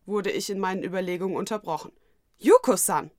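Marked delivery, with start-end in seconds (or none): 2.4-3.1 lauter überraschter Ausruf; plötzlich überrascht rufen. A narrator's reading. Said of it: "rief ich überrascht aus". (überrascht rufen)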